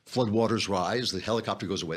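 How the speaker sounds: ordinary talk, nothing marked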